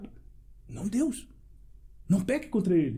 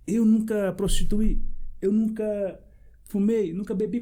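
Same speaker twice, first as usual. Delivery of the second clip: retold tearful plea; 4 semitones higher, 5 dB louder, slower than usual. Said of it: "mas chorando, triste".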